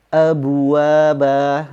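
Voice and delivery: abwaba said very slowly with the b sounding like bu; wrong take, sounds like abu; qalqalah mixed with u. Shown as a demonstration. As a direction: abwaba with lips rounded on the b bounce. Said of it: "terdengar seperti abu".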